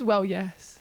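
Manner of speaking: mimicking her. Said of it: "I think she says".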